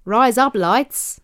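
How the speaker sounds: trying out an Australian accent. Shown as a demonstration. Co-host testing the accent hack, Australian accent. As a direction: have a go at an Australian twang. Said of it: "you'll sound like an Australian".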